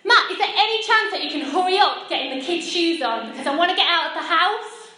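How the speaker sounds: put-on wife nagging her husband about the kids' shoes, irritated and loud; impatient snap. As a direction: hurry him up, fed up and loud. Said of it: "It kinda looks a little bit like this".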